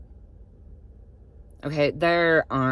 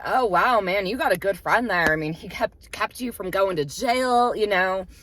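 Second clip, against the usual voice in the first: higher, put-on friendly casualness; playing it cool; 5 semitones higher than usual. Driver humoring two suspicious passengers, playing it cool. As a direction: act impressed and easygoing to keep the peace. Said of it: "So I just play it cool".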